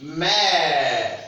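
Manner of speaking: "mère" with a long open "eh", falling; open è sound. Shown as a demonstration. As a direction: draw out the open vowel in "mère". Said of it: "It pronounced like E".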